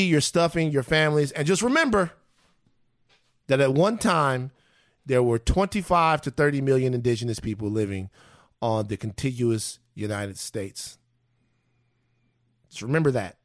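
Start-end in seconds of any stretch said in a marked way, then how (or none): 3.5-13.4 hushed, measured reverence; solemn remembrance. Real, not acted. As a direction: weigh each phrase as a sober tribute. Solemn holiday remembrance of indigenous people.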